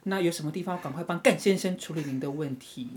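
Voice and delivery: level service voice with 干 punched out; stress on 干. Shown as a demonstration. Agent offers help to rude caller, stressing 干. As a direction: politely offer help, hitting 干 hard. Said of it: "我都很平， 但是我讲他的那个 姓氏的时候".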